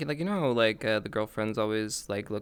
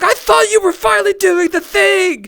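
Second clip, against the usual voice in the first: much higher, louder put-on girlfriend voice; imitating girlfriend; 13 dB louder than usual. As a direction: squeak it like the let-down girlfriend. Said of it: "she was like".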